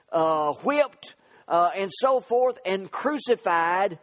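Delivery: punched list with drawn-out endings; emphatic preaching. Real, not acted. Preacher on those who missed the Messiah, emphatic preaching. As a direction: hammer each point from the pulpit.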